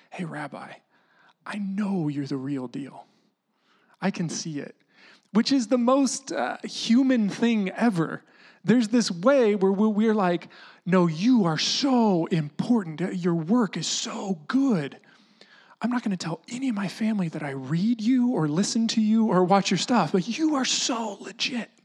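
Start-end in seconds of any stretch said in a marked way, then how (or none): 0.1-4.7 hushed, secretive admiration; whispered. Acted. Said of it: "It's like this whispered". 10.9-21.7 half-whispered secret praise; whispered, hidden. Acted. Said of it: "this whispered kind of hidden thing".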